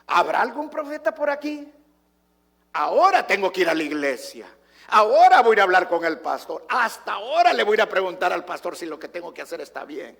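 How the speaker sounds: loud, frantic voice of kings in trouble, rising to a near shout; panicked loud plea. Retold or imitated. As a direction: cry out desperately for a prophet.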